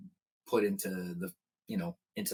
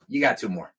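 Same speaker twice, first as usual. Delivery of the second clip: gruff sound guy; 4 dB louder than usual. Retold or imitated. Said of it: "the guy goes".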